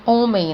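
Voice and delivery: homem with a silent H; demonstrated pronunciation. Shown as a demonstration. Teacher showing pupils the H is silent, homem begins on the vowel. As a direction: say homem starting straight on the O. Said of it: "vou pronunciar da mesma forma".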